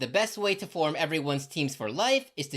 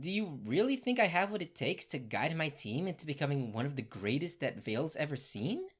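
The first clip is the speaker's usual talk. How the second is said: soft earnest question; 6 dB quieter than usual. Acted. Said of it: "Ruby asks Ozpin".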